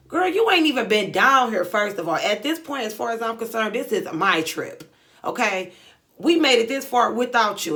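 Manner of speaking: loud bursts on opening words; indignant telling-off. Retold or imitated. Setting her friend straight about whose trip it is, indignant. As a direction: come in loud and push each point.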